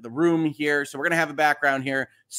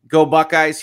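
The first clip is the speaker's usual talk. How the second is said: rival cheer; 9 dB louder than usual. Retold or imitated. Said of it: "we got a".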